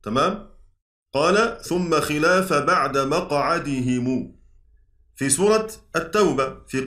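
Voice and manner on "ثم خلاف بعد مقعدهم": slow recitation. Shown as a demonstration. Teacher recites verse from the poem.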